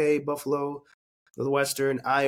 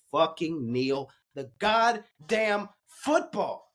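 heated rant; much slower than usual. Real, not acted. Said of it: "I got a little heated there".

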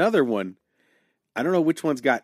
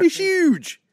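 silly voice; 5 dB louder than usual. Pretend. Continuing mock bit.

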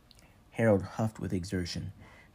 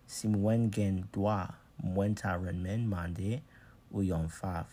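put-on Haitian Creole accent; slower than usual. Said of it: "in his deep accent".

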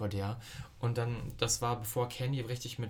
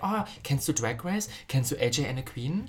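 gushing fan; 3 semitones higher, 4 dB louder than usual. Retold or imitated. Imitating fans' messages.

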